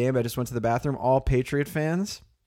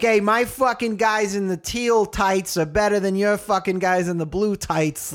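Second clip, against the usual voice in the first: higher, hammed-up boastful fan; mock bro fan; 6 semitones higher than usual. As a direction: brag like a meathead fan. Mocking a tribal sports fan.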